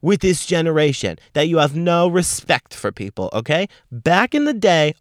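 grumpy rant. Real, not acted. Ranting at younger generation.

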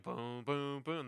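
sounding out an instrument; imitated piano notes. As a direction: voice the notes as separate booms.

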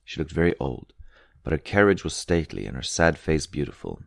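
usual speaking voice

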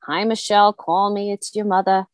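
a light hint of a Long Island mom accent; imitating her mother's Long Island accent, understated. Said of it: "my family talks like this".

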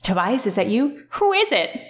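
a nerdy voice with a high squeak at the end; lightly voiced nerd, jumping high on the question; nerdiest voice. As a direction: play the worst nerd you can. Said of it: "the worst, nerdiest voice".

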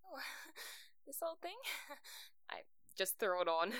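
coy, giggly false modesty; fake modesty. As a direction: laugh it off bashfully. Compliment on dress, laughing coyly.

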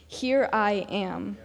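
slow, solid statement; unhurried, certain declaration; simply stated. Retold or imitated. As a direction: state it simply and with certainty, taking your time. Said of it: "he simply states".

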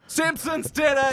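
high, slow exaggerated shout-quote; mock cartoon exclamation, pitched high; quoting catchphrase. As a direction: belt the catchphrase in a put-on voice. Quoting famous South Park line.

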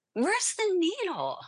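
asking the room in mock bewilderment; puzzled surprise. Retelling dropping the needle.

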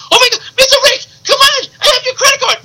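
very high, pleading comic voice; Miguel. Pretend. Intruder begging the hosts as police remove him, squealed pleading. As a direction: wail in a put-on squeaky voice.

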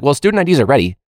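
teacher mocking the school office; mock administrator. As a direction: parody a smug announcement. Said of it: "they were like".

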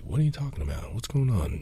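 high, stunned question from the parents; retelling mom and dad hearing the news, mock-shocked. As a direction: play the parents caught off guard, voice jumping up. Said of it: "completely shocked".

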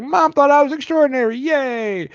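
sarcastic yay. Retold or imitated. Sarcastic quote of Enola.

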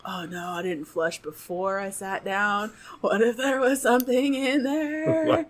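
slow, drawn-out dread, climbing in pitch; dawning dread. Retold or imitated. Woman realizing what she sat on, dawning dread. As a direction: draw out the worry, rising towards the end.

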